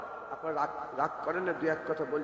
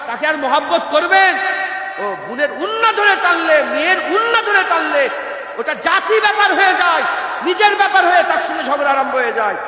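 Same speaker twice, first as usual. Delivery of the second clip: loud, raised rebuke from the pulpit; fiery preaching; 7 semitones higher, 9 dB louder than usual. Acted. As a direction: hammer it home to the crowd.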